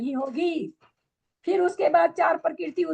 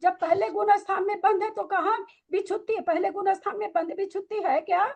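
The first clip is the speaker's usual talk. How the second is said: higher, heated rhetorical questions; heated challenge; 5 semitones higher than usual. Real, not acted. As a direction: press the student hard with questions.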